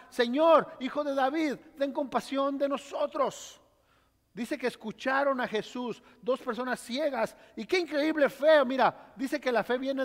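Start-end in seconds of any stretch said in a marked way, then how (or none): 0.1-3.6 loud pleading cry to Jesus. Acted. Blind men crying out to Jesus, pleading loudly. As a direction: call out for mercy. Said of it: "comenzaron a gritar".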